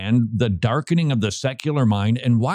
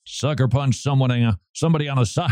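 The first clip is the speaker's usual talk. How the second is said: mild Southern accent with a touch of a famous singer; half-hearted Southern singer read; much faster than usual. Shown as a demonstration. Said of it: "I'm sounding like a famous singer".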